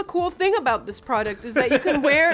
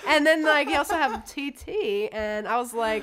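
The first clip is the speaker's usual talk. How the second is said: put-on higher-pitched, giggly Valley Girl chatter; Tiffany; 3 semitones higher than usual. Valley Girl explaining her new nickname, Valley Girl. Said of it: "a character named Tiffany".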